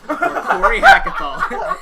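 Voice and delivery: high, loud, slow through laughter; can barely get the name out laughing. Real, not acted. Naming the loser while laughing.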